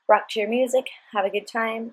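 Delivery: ordinary talk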